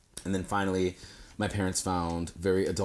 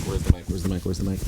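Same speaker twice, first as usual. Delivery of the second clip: mock searching for the mic; 8 dB louder, faster than usual. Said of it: "trying to speak directly to the mic".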